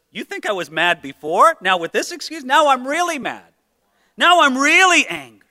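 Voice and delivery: a hint of furious Moses; Moses mad. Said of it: "Moses wouldn't say something like this".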